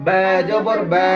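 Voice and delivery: slow বা জবর বা with light, long vowels; lightly open vowel. Shown as a demonstration. Teacher leads pupils in repetition, slow light বা. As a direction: draw out বা, mouth barely opened. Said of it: "হালকা একটু".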